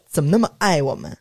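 laughing through a sarcastic quote; mock his delight while laughing; laughing mockery. Mocking the boss's smugness at the restaurant, laughing.

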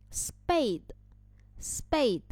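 "spade" with the p after s sounded as b; p read as b. Shown as a demonstration. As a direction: say "spade" slowly, like s plus "bade". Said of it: "我们要变成b音去读". (“spade”里的p读成b音，慢速示范)

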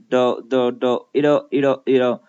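"do" as the d-softened end of "it'll"; "it'll" said like "iddo", syllable drilled first; voiced t. Shown as a demonstration. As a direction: build "it'll" from "do", t turned to d. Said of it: "浊化成了的".

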